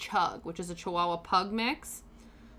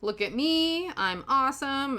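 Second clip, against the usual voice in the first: put-on precocious kid; 2 semitones higher, 3 dB louder than usual. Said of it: "precocious and so just like".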